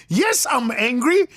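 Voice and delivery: high, hammed-up comic outrage; angry. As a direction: climb into an indignant, high-pitched rant. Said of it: "Are you angry".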